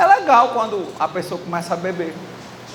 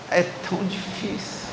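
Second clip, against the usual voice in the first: lamento imitado; 3 semitones lower, 9 dB quieter than usual. Retold or imitated.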